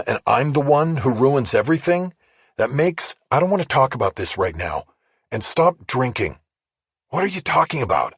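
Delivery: a heated, hurt partner pushing back; Rachel arguing. Acted. Narrator voices Rachel in argument.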